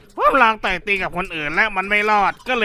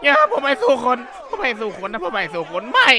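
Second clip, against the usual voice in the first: laughing through it. Acted. Same plea, now laughing.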